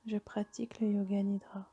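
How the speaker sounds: calm yoga nidra guidance with long pauses; guided meditation. Acted. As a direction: guide them toward rest, phrase by phrase, leaving long silences. Leads a yoga nidra session. (méditation guidée, posée, avec de longues pauses)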